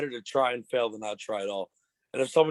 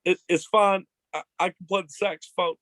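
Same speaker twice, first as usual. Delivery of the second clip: lightly voiced president, pitched up; a higher, easygoing presidential impression; Bill Clinton; 5 semitones higher than usual. Guest continuing his president impression, higher voice. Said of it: "Bill Clinton".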